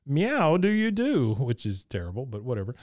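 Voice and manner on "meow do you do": much higher, a silly cat puppet voice; squeaky puppet voice. Retold or imitated. Retelling a girl voicing her cat puppet, high and squeaky. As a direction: chirp it out like a kid's cat puppet.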